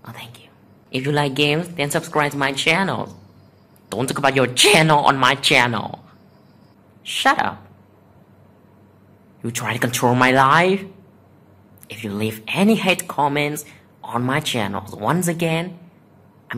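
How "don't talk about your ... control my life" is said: loud angry scolding. Real, not acted. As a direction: scold the commenter. Scolding a commenter.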